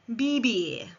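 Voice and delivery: "vivir" with both v's as b, like bibir; Spanish vivir. Shown as a demonstration. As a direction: say "vivir" with b sounds and i as ee. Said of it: "V's are pronounced B for bumblebee".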